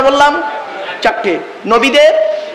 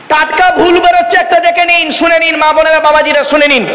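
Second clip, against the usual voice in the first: calling out; 3 semitones higher than usual. Real, not acted. Calling the crowd to attention.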